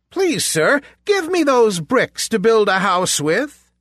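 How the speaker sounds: high, bright piglet voice; a small polite pig asking; little pig voice. A narrator's reading. Pig asks for bricks.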